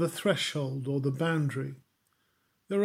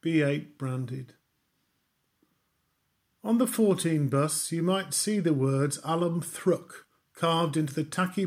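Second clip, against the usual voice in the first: poetry recital. Acted. Preacher reading a congregation a poem, impassioned recital. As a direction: build each "for" line like a rallying list.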